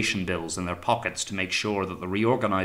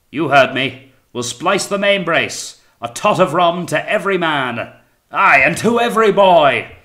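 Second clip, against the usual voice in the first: high, loud proclamation; emphatic shouted order; 9 semitones higher, 12 dB louder than usual. A narrator's reading. Captain ordering rum for all hands, emphatic shout. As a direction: announce it grandly to the whole ship.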